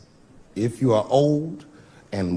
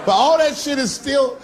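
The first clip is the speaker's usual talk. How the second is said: comic shout; 9 semitones higher than usual. Real, not acted. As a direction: blast it at the crowd. Punchline shout.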